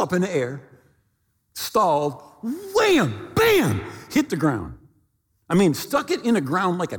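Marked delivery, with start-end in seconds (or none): 2.7-3.8 high punchy impact words; imitated crash. Storyteller acts out the plane hitting ground, punchy impact. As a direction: punch out each crash sound.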